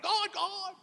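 high, urgent call to God, not loud; a lightly voiced plea to God; crying out. Believer under threat crying to God, lightly voiced high call. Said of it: "You're crying out".

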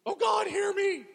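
high, loud anguished shout, slowing at the end; crying out. Acted. Psalmist shouting to God in anguish, loud and high. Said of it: "David or another author crying out".

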